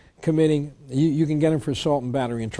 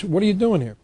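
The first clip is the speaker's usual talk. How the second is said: indignant challenge; 5 semitones higher than usual. Retold or imitated. Taxpayer confronting police at door.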